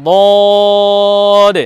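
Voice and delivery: heavy Arabic Dad in বদ, vowel held long; বদ as a long, level "dwaad"; tongue-side articulation. Shown as a demonstration. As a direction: draw বদ out with tongue side on the molars. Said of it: "পাঁচটি দাঁতের গোড়াতে লাগিয়ে".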